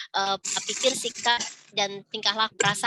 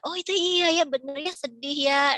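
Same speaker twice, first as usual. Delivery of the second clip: affirming adult; 4 semitones higher than usual. Retold or imitated. Facilitator affirms child.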